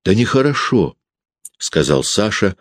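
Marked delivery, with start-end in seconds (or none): 0.0-1.0 vexed smirk. A narrator's reading. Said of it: "с досадливой усмешкой".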